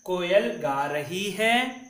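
slow, clear, word by word; slow model pronunciation. Shown as a demonstration. Teacher reads the sentence slowly for pupils to repeat. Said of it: "फिर से हम उच्चारण करेंगे".

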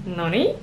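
noni climbing on -NI like a question; stress on second syllable. Shown as a demonstration. Learner retrying the "I told you" noni, rising second syllable. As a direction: tentatively lift the end of noni. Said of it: "emphasis is on the second syllable".

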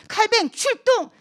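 high, drawn-out mock battle call; rallying call. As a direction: summon a hero into action. Friends call Calvin into action.

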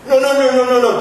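high, loud, laughing no's; scornful laughing refusal. Acted. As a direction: laugh off his excuse. Boss mocks employee's excuse.

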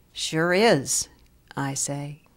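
deliberate poem recital, pausing between phrases; poetry reading. Acted. Visiting teacher's poem about a librarian, measured poetry reading. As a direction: give each image its own space.

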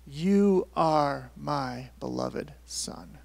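very slow, every word set apart; drawn-out, weighty pronouncement; solemn declaration. Acted. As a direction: proclaim it word by word. God's personal statement, voiced slowly.

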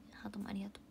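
soft unvoiced thank-you; whispered thanks. Real, not acted. Streamer whispering thanks for a heart. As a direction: whisper it gently.

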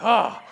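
loud exasperated "ah"; retold burst of frustration; grumpy groan. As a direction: let out a hammed-up grumble. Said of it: "I'm just so grumpy".

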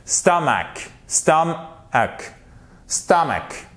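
"stomach" as STUM-uk, ending in k; first-syllable stress. Shown as a demonstration. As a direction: model "stomach" repeatedly, stressed first, falling. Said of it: "elle est porteuse de l'accent tonique".

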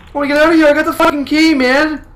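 loud frantic begging to escape; panicked pleading. Real, not acted.

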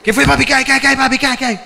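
butter him up like a street hustler; street clown greeting. Retold or imitated. The mime greeting the passerby, chummy.

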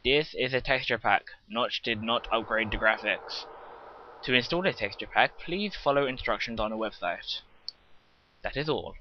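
a hint of robot voice; lightly mechanical recital; robotic. Real, not acted. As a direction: read it out slightly robotically, like a set announcement. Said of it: "Sorry I sound like a robot there".

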